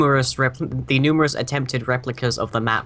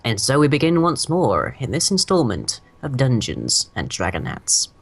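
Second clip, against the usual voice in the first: game master recap. Acted. GM opening the session, grand narrator voice. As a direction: set the scene like an epic saga.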